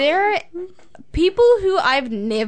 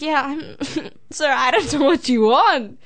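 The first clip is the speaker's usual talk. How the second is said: retold reply with a laugh breaking in; 2 semitones higher than usual. Telling the classmate she can't tell what he wants, laughing. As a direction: laugh mid-sentence, then give up on him. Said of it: "I'm laughing".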